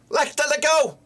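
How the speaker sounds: high exasperated yell; frustrated shout. Real, not acted. Fan yelling at a player to release the ball. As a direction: plead loudly for the pass.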